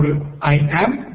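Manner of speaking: I am, drawn out slowly; slow demo. Shown as a demonstration. Teacher to Spanish-speaking students, slowly modelling English. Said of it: "teacher demonstrating English phrase".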